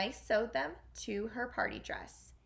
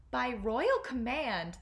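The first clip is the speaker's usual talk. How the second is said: slow, louder official read; grand proclamation; 2 semitones higher, 5 dB louder, slower than usual. Acted. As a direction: announce it like a royal decree. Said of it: "read from the official-looking note".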